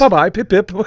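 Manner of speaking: hammed-up British goodbye; imitating Joe's accent. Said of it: "amazing accent that he has".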